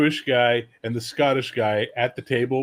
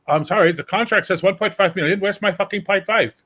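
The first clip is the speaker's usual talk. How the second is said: higher and louder, mock-prim demand for the money; pushy Dane; 7 semitones higher, 5 dB louder than usual. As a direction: play a stickler demanding every cent. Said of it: "be all like".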